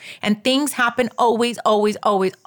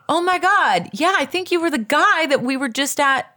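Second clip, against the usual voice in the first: higher-pitched delighted realisation; excited recognition; 4 semitones higher than usual. Retold or imitated. Woman recognises the guy from last week, excited. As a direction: imitate someone suddenly placing a face. Retelling her sudden recognition.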